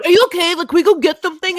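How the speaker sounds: mock concern, laughing through it; laughing quote. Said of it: "He was like".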